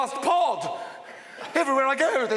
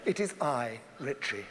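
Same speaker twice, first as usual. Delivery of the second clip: hushed to God; 7 semitones lower, 5 dB quieter than usual. Acted. Addressing God timidly.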